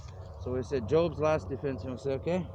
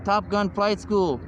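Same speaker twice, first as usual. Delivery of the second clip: louder, slower, higher, like a big title; announced proudly; 6 semitones higher, 5 dB louder, slower than usual. Shown as a demonstration. Pitching his new channel, proclaims the name loudly. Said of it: "Why you think I say".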